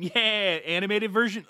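mock your friends' delight, stretching it out; mimicked meme approval. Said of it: "You guys are like the rapper meme".

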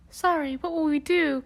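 high, loud tearful sob; lost girl crying to the stranger, high loud sob; sobbing. Acted. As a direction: sob the question out in despair. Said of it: "Kirsten sobbed".

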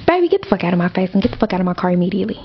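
fast, half-joking tirade; mock scolding. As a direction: rattle off the eviction fast. Mock scolding her son.

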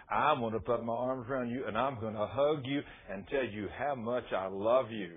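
low, soft declaration, slowing down; heartfelt gratitude. Retold or imitated. Grateful wife declares love, retold.

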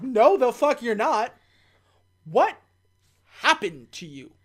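mock-indignant, drawn-out disbelief. T refusing H in a film recap, mock-indignant. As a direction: act out an offended telling-off. Acting T's angry refusal.

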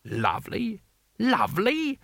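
incredulous question leaping high; indignant echo. Acted. Customer outraged, echoes the vendor.

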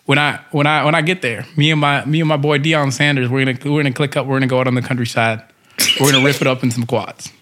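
put-on light country rancher accent; easygoing cowboy storyteller voice; rancher twang. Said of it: "please do your rancher voice".

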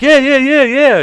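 high, eager string of yeses; over-the-top put-on character. Answering her in the act at dinner, high put-on voice. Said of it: "I was like".

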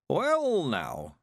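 put-on stunned old man at a loss; amazed old man. A narrator's reading. Mister Weevil staring into his box of gold, amazed.

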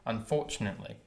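unfortunately in a light Wilmington accent. Shown as a demonstration. Showing a friend the local way, Wilmington accent. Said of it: "a Wilmington accent".

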